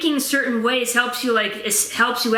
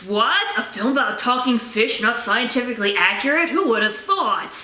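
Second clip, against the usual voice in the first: sarcastic feigned surprise; mock astonishment. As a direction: pretend to be shocked by the obvious. Mock shock at talking-fish inaccuracy.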